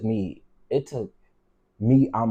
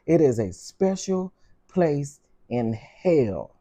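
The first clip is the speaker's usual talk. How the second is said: slow emphatic anger; 4 semitones higher, much slower than usual. Real, not acted. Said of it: "I'm getting so angry".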